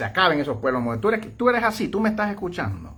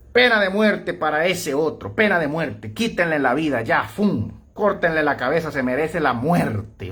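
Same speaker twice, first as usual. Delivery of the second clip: mock bloodthirsty zealot. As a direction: lightly play the hanging judge, slowing at the end. Voicing someone demanding executions.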